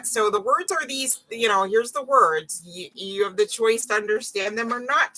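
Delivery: lightly voiced toddler-time explaining; talking to toddler. Reader explaining words to a sir, mock toddler talk. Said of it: "toddler time".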